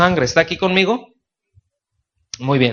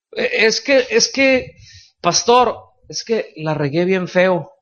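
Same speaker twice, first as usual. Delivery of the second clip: distressed sinner; 4 semitones higher, slower than usual. Acted. Voicing a guilt-stricken church member.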